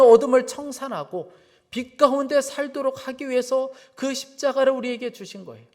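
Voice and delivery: loud, emphatic sermon delivery; forceful preaching. Real, not acted. Preacher telling the congregation why God loves them, forceful preaching. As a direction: proclaim scripture and gospel to the congregation.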